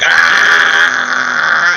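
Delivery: mock scream. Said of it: "he just screams like".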